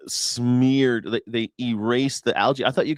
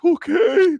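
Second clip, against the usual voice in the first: mock meek okay; 5 dB louder than usual. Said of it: "we're like".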